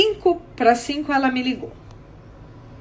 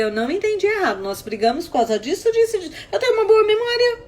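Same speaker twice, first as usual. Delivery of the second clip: higher, insistent protest; acted-out bickering; retold indignant retort; 7 semitones higher, faster than usual. Retold quarrel, arguing back.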